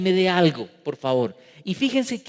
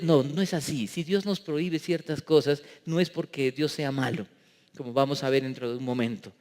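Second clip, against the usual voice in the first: normal talking voice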